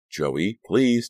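high, loud urgent plea; urgent scared pleading. A narrator's reading. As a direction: beg him to stop, scared. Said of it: "Danielle pleaded".

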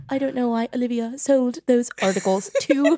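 fake-cry it, voice breaking at the end; mock crying. Newly crowned dame crying on a BBC morning show, mock tearful. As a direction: pretend tearful breakdown, laughter creeping in. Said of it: "I'm, like, crying".

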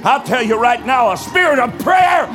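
halftime pep speech. Real, not acted. Preacher rallies congregation, building.

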